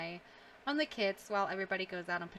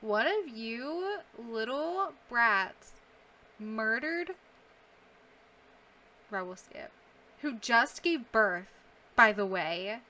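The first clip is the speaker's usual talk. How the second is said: angry accusation; 4 dB louder, slower than usual. Real, not acted. Accusing the clan cats.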